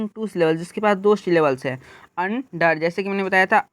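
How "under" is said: under as two beats, un then der; split into syllables. Shown as a demonstration. Teacher showing a two-syllable word, under split in two. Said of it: "अन एक बार मैंने पढ़ा".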